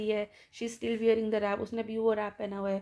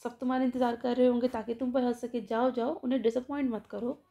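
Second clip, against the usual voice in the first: taunting. Retold or imitated. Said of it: "उसको ताना देके बोलती है".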